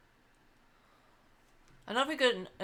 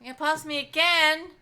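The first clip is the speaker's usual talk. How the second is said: higher, louder outraged question; indignant disbelief; 6 semitones higher, 9 dB louder than usual. Real, not acted. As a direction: protest it in disbelief. Indignant at being passed.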